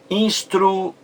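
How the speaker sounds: Instruído broken after instru, then a long high í; split, stretched stress. Shown as a demonstration. Teacher showing the segundo I, Instruído split with drawn-out í. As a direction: pause before a long held ído in Instruído. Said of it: "A sílaba mais forte".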